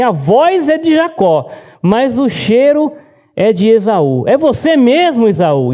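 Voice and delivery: a hint of an old man who can't quite believe it; puzzled blind father.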